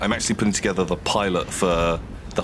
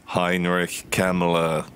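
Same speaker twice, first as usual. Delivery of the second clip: deadpan; much slower than usual. Shown as a demonstration. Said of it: "just say really, like, deadpan".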